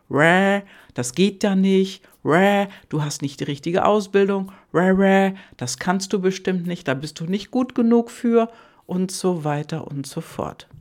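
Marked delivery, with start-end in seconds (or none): 0.1-8.5 louder, croaking naysayer with a raised pitch on the last line; loud nagging mind. Retold or imitated. Coach voicing the mind that butts in: loud croaking put-downs. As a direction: squawk every objection like a know-it-all. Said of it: "der Verstand mit seiner lauten Stimme und quakt dazwischen".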